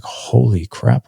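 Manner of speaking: slow, stretched-out disbelief; slow stunned inner voice; retold amazement. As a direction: draw it out in mild retold shock. Retold shock watching friend approach dad.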